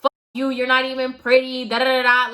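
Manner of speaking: retold tirade in a lightly put-on voice; half-hearted angry stranger voice; mock rant. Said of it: "he just started going in on me".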